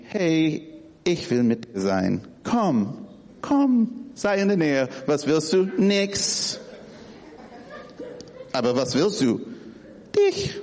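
lightly flirty, swooping pitch; affectionate call. Retold or imitated. Wife calling husband near, playfully flirty. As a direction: lure him close, teasing. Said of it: "da gibt's auch die".

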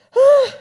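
sudden loud high "Ah"; preacher calls out loudly; loud cry. Real, not acted. Loud exclamation in sermon.

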